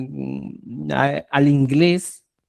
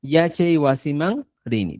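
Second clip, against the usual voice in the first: slow model answer. Shown as a demonstration. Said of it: "Por ejemplo".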